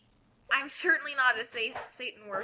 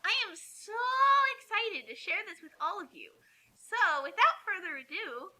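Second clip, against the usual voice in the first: higher, gushing mock-mother; silly mommy voice; 5 semitones higher than usual. Reading the author's note as the clueless mother. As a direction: ham up the naive fanfic author. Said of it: "try to just sound extremely stupid".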